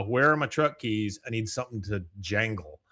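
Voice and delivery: a hint of Hank muttering; fond soft quote; quoting Hank, lightly voiced. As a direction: quote the favorite line, softly. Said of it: "my favorite line".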